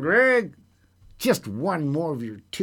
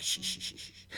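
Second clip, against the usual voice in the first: shushing; 16 dB quieter than usual. Real, not acted. Shushing himself on air.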